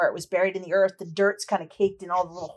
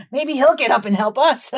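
high, loud cackling taunt; laughing villain, pitched up and loud; gloating laughter; 5 semitones higher, 6 dB louder than usual. Acted. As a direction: laugh through the words, mocking the fallen. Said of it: "looking down and laughing".

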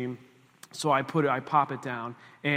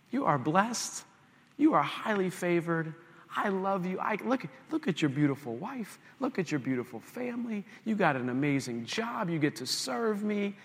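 higher, earnest, encouraging voice; gentle reminder; 5 semitones higher than usual. Retold or imitated. The Lord reminding a frustrated man he's blessed, gentle reminder. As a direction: count the blessings tenderly, pitched up. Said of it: "the Lord just reminded me".

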